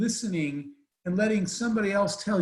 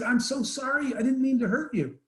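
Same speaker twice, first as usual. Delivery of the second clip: higher, anxious retold apology; reliving his panicked apology; alarmed apology; 5 semitones higher than usual. Apologizing to the sobbing girl, higher and anxious.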